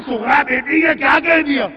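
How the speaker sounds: retold pained reproach, pitch rising; anguished shock. Zainab answers her niece Sughra, pained and shocked. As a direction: cry out as the pained aunt. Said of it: "تڑپ کے کہا".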